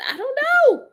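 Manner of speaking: high, loud burst of laughter; giggling through the words; laughing. Real, not acted. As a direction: crack up at the clip. Laughing at melodramatic clip.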